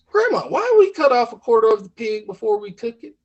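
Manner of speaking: a touch of folksy bafflement; puzzled grandchild. Acted. Questioning grandma in story.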